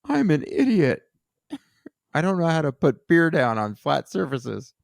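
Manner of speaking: Jon impression. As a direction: play a hapless Jon. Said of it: "I'm gonna try though anyway".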